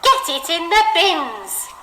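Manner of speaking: bossy teacher voice giving an order. Shown as a demonstration. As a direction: boss them, tell them firmly. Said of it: "he's going to be a little bit bossy about it".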